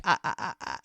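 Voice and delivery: imitated false starts; attempting to speak. Woman trying to interrupt his plea, stammering. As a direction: stammer as if trying to get a word in. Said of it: "she starts to talk".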